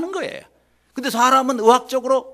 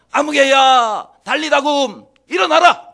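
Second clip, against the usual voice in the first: high, loud rousing shouts; commanding voice of the Lord; 7 semitones higher, 10 dB louder, slower than usual. Acted. The Lord rousing believers lying like the dead, high shout. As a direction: shout each call to wake them. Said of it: "그러면 주님께서".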